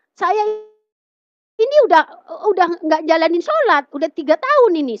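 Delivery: high, loud retold complaint; upset protest. Continues acted protest at church.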